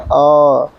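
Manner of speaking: a brief अ; short vowel. Shown as a demonstration. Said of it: "अ में थोड़ा समय लगता है". (छोटा अ)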